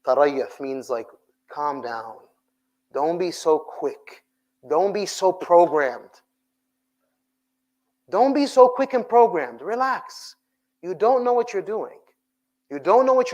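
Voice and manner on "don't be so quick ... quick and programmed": slow building emphasis on so; building stress on so. Real, not acted. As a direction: build it up each time, punch so. Preacher building repeated phrase.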